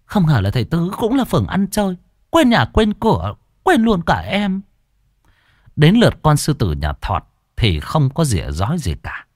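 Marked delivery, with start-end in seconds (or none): 0.0-4.6 high, quick wounded jab; guilt-trip him coyly; high whiny reproach; reproachful sulking. A narrator's reading. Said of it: "cũng không kém phần".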